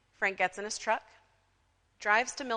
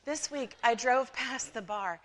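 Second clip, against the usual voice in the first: gossip's lightly put-on accent; Mildred's put-on accent; 3 semitones higher than usual. Church gossip resuming her tale, light put-on accent. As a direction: give it a hint of a mock accent. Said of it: "I don't know why Mildred has an accent".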